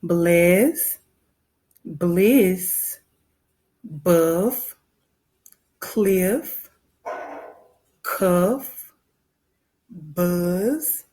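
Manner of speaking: each word said alone, slow and clear, with a rise on most; word list read out. Shown as a demonstration. Teacher reading the word list for the class to follow, each word spoken deliberately. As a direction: model each word with a clear pause after it. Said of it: "I'll follow what you say".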